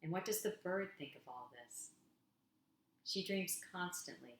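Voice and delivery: gentle spoken-word delivery for an audience; poem reading. Acted. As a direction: read each image as if it's a small wonder. Reads her second poem aloud.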